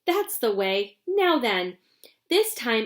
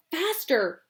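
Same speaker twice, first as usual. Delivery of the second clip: excited cry; 5 semitones higher than usual. Acted. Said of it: "cried Mister Wonka".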